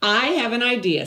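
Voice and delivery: eager idea. Acted. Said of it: "said Clayton".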